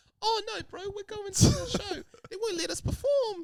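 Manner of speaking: exaggerated Kiwi accent, very high pitched. Discussing accents, the speaker does a stereotypical New Zealander accent. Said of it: "doing a stereotypical racist. um, New Zealander one".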